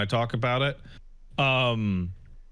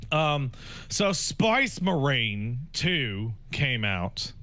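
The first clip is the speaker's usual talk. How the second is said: mock Kiwi accent; much slower than usual. Shown as a demonstration. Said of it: "Is there a Kiwi accent behind this thing".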